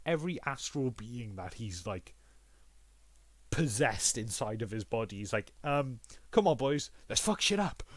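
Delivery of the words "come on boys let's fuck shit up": rallying the troops, higher on the second half; a cocky hero calling his army to charge; mock rallying cry; gleeful battle cry. Hero rallying his possessed beings.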